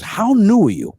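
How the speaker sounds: high, retold incredulous question; mock incredulity. Club owner to a green comic, mock incredulous. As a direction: imitate a baffled boss, pitch jumping up. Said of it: "And he goes".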